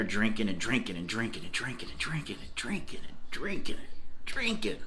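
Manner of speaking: soft singsong climb, going on and on; endless drinking. Shown as a demonstration. Repeats word to stress endless drinking.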